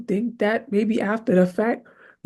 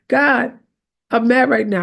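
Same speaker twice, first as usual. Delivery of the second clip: honest, louder "I'm mad"; mad prayer; 3 semitones higher, 4 dB louder than usual. Shown as a demonstration. Preacher showing the congregation an honest mad prayer, louder. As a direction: tell God straight you're mad. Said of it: "We're not fronting for God".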